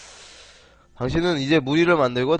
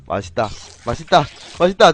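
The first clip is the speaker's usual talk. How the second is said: building yum; 4 dB louder than usual. Pretend. Repeating while eating in game.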